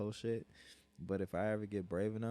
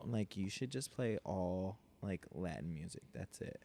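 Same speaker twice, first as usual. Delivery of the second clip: put-on Valley girl voice; 3 dB quieter, slower than usual. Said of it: "you sound like a Valley girl".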